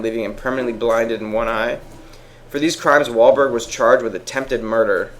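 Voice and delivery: measured read-out of a written report; reading aloud. Real, not acted. Reading friends an article on an actor's crimes, matter-of-fact. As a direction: read the case facts out clearly, evenly.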